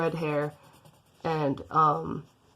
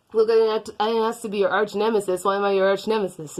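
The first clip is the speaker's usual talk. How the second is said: loud protest; 4 semitones higher, 5 dB louder, much faster than usual. Acted. Villain protests being nemesis.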